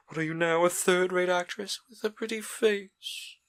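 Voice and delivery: put-on a young man's bitter, wounded contempt; Dorian, cold and scornful. A narrator's reading. Dorian rejecting Sybil after her bad performance, scornful. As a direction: spit out his disappointment with disdain.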